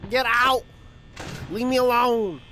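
high, loud crying pleas; panicked pleading. Real, not acted. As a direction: beg in real panic.

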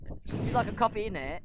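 half-hearted mock British; attempted British accent. Imitating British people offering a drink, mock British accent. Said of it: "I meant British likes".

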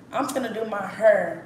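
put-on country Texas accent, "hair" sounding like "her". Friend from Denver mimics her talk, country Texas accent. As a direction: make "hair" rhyme with "her", Texas style. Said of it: "I don't know why I talk like that".

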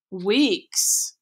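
lightly acted disappointed query; a touch of let-down on one questioning word; disappointed, secretly pleased. A narrator's reading. Bruno reacting to his sister's news, mildly disappointed. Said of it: "sounding disappointed but secretly pleased".

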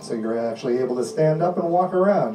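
steady, insistent hypnotist delivery; hypnotic suggestion voice. Acted. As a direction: lull them in with firm calm commands.

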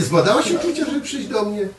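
teasing. Retold or imitated. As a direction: tease her again with a high question. Teasing question repeated. (wysokie, żartobliwe pytanie do żony)

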